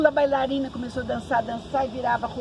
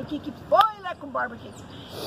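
high, puzzled call that trails off to nothing; startled question; 4 semitones higher than usual. Retold or imitated. Narrator asking Leco Borba what's wrong, high startled question fading out. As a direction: ask it high and worried, then fade away.

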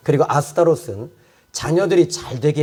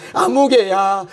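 calling out; 3 semitones higher, slower than usual. Acted. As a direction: call 아무개야 out as if across a room. God calling a person by name.

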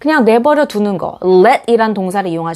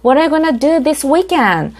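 innocent curious question; 4 semitones higher, much slower than usual. Shown as a demonstration. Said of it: "천진난만한 의문문".

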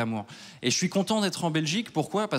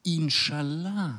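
laughing aside; much slower than usual. Acted. Comic prayerful aside.

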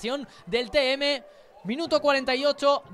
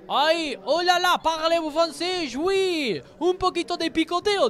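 put-on French accent; 5 semitones higher, 4 dB louder, slower than usual. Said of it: "¡Qué bien ha estado el francés!".

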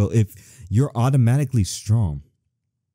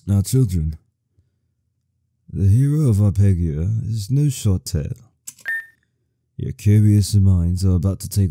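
lightly voiced old storyteller; a hint of a kindly grandfather; old man voice; 3 semitones lower than usual. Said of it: "That's that old man voice".

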